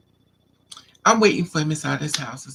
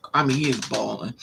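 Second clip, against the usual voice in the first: ordinary delivery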